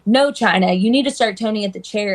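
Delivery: loud scolding boss. Retold or imitated. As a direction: bark it like a boss fed up with you. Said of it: "And she'd be like".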